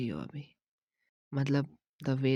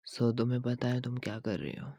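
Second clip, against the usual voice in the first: ordinary delivery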